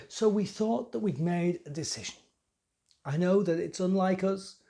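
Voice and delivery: self-important priest confiding the night's events; young temple priest. Acted. Young priest explains the plot against the heretic, animated confiding monologue.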